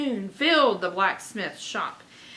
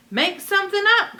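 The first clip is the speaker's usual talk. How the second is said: higher, louder, fast call; 11 semitones higher, 8 dB louder, faster than usual. Acted. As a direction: call back over the music. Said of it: "called Dipper".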